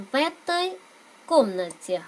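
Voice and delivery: В этой run together as vetoy; linked reading. Shown as a demonstration. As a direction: link в into этой smoothly. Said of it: "các bạn nối âm giúp mình".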